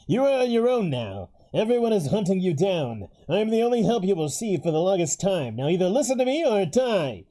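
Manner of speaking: put-on old man voice. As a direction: speak as a grim old man. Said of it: "the old man voice from the get-go, 'cause you, you were nailing it".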